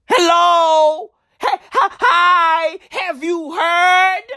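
high, insistent hailing; calling out. Acted. Ranter hailing listeners about the whispers, calling out insistently.

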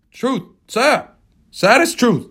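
grieving mate. Acted. Starbuck voiced.

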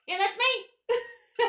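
high, loud, drawn-out Southern reply; slow mock Southern twang; southern accent. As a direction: imitate a Southern woman confirming her name. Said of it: "it's in her southern accent".

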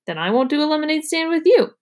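put-on pouty little girl throwing it back; little sister retort. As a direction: sing it back like a pouty kid. Child retort, higher voice.

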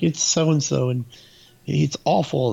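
retold cry of alarm; alarmed girl. Camper reporting a body to the cop, mock alarmed.

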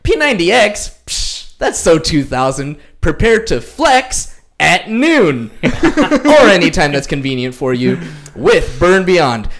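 punchy hype announcer pitch; hype intro. Acted. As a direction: sell it like a fitness ad. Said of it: "All right, here we go".

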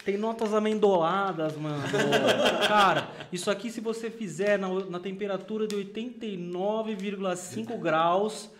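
lightly voiced hipster São Paulo coffee snob; paulistano stereotype. Mocking the São Paulo stereotype for podcast friends, lightly voiced. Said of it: "Vai falar assim, ó".

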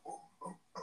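monkey speak. Acted. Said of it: "Monkey speak, so it's like".

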